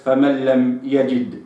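يجد said as from "al-jidd", kasra altered; يجد as the wrong word meaning seriousness; wrong reading. Shown as a demonstration. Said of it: "وليست".

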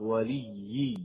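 وليي بإظهار الشدة عند الوقف; قف على وليي بشدة ظاهرة; doubled ya at pause. Shown as a demonstration. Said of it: "عند الوقف". (إظهار التشديد عند الوقف)

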